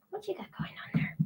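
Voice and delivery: high, fast, whispered to the cat. Real, not acted. Host asking her cat what it's doing, high whisper. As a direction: murmur to a pet.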